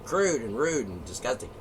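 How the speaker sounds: high, prim mock old lady voice; little old lady. Mocking a prudish old lady complaining, high prim voice. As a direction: lightly play a shocked old lady. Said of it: "the little old lady said".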